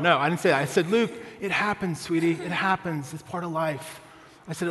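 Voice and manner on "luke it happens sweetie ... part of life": put-on softening dad-to-child reassurance; mildly tender acted comfort; retold gentle consoling. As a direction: console a little boy, gently trailing softer. Dad consoling his hurt son.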